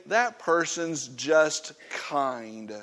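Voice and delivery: slow, gentle praise of a brother; sincere admiration of a fellow believer; admiring remark. Pretend. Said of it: "you ought to say".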